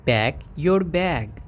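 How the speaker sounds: "Pack your bag" said slowly, each word drawn out; slow teaching repeat. Shown as a demonstration. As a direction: spell it out slowly for students. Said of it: "हमें बोलना है अपने bag pack करो". (धीरे-धीरे सिखाते हुए)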